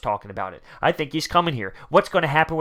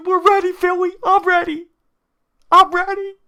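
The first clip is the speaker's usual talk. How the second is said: very high, loud, mock hyped yell; pumped-up athlete; 7 dB louder than usual. Vlogger mimicking a player's gym videos for Philly fans, pumped up. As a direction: imitate a player firing up the fans at full pitch. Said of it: "just getting pumped up".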